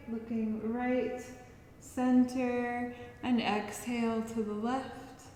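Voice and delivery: gentle, unhurried movement cues; guided relaxation. Acted. Yoga teacher guiding listeners through stretches, calm guiding voice. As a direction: lead them softly from breath to breath.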